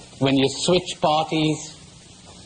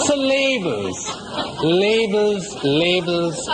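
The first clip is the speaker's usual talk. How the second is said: laughing; 3 semitones higher, slower than usual. Real, not acted. Laughing, repeats labels.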